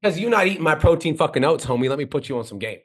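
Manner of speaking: cocky, casual punchline delivery; laid-back hook with attitude; personality demo. Shown as a demonstration. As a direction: say it like you're talking to your homie. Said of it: "You could literally say this. Watch".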